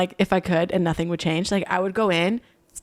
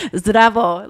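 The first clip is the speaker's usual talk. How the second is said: loud Serbian greeting with a laugh; hearty Serbian hello, half laughing; 7 dB louder than usual. Shown as a demonstration. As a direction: switch into your Serbian voice. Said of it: "When I speak in Serbian".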